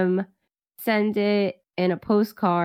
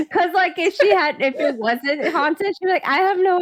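excited; 9 semitones higher than usual. Real, not acted. Excited retelling, laughing.

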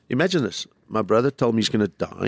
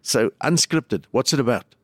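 slow questioning; 3 semitones higher than usual. Retold or imitated. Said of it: "so she said".

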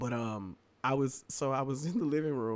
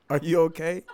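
asking through laughter, louder; laughing through it; 5 semitones higher, 7 dB louder than usual. Retold or imitated. Retelling the friend's worried question, laughing louder.

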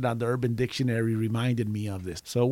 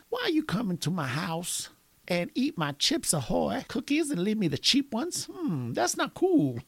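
put-on higher-pitched kid confronting Santa; mock kid grievance, pitched up; imitated kid; 7 semitones higher than usual. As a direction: put on a child's voice to complain. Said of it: "the kid says to me".

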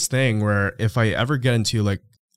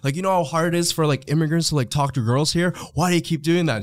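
higher-pitched, lightly imitated Arabic accent; thick Arabic accent; 6 semitones higher than usual. Man complains teller steals his girls, mock Arabic accent. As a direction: plead indignantly in a touch of mock Arabic accent. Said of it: "like, a thick Arabic accent".

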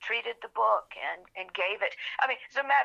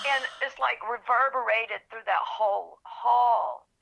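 crying; 2 semitones higher, slower than usual. Real, not acted. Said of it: "I was already crying at this point".

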